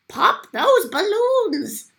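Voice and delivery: high, slow furious shout. A narrator's reading. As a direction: bellow the order at the guards. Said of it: "the Archduke shouted to his men".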